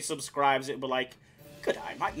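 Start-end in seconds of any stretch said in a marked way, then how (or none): 1.6-2.2 Texan attempt slipping into Australian; accidental Australian accent. Shown as a demonstration. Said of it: "No, that's Australian again".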